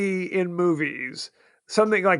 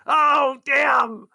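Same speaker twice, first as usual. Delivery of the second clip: higher, hammed-up outcry; mock dismayed cry; 6 semitones higher, 3 dB louder than usual. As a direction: play a victim noticing the injury. Acts out the dying characters.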